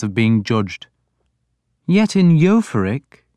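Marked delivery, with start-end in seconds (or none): 1.9-3.2 mild, high-pitched and slow lead-in. A narrator's reading. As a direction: go on mildly, pitch lifted, unhurried. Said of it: "Alfred went on mildly".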